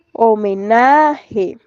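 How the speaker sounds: "homenaje" slowly, NA stretched and stressed; "homenaje" as a slow stress demo, weight on NA; stress on penultimate syllable. Shown as a demonstration. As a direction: draw out NA in "homenaje". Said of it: "el acento está en la penúltima sílaba".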